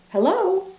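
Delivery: high small friendly voice; a tiny creature calling hello; little voice. Acted. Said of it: "said a little voice".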